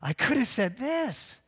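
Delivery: put-on high, loud toothless old woman; old lady yelling. Old professor yells back at the street preacher, high shout. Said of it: "You're like".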